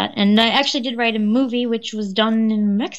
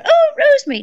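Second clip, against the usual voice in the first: put-on higher, fluttery old mother answering the phone; elderly mum voice; 6 dB louder, faster than usual. The speaker imitating her mum answering the phone, higher and confused.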